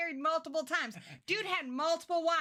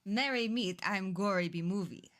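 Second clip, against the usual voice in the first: put-on Transylvanian vampire accent; 5 semitones lower than usual. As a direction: greet like an old-world vampire. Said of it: "We're not doing that voice the whole time".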